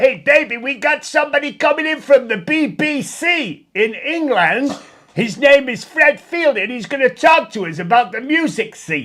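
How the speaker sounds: loud, high-pitched radio DJ patter. Retelling a visit to a radio station, imitating the DJ Wolfman Jack. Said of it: "he used to talk like that".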